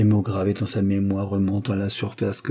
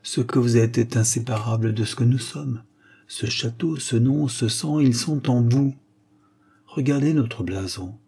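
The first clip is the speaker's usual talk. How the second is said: bitter smile; 3 semitones higher than usual. Acted. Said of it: "avec un sourire amer".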